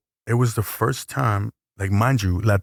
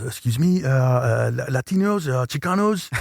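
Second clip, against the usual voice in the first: high, hesitant halting question; lightly voiced cameraman, stumbling and pitched up; imitating a French cameraman; 5 semitones higher than usual. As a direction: voice the shy French guy with a camera, much higher.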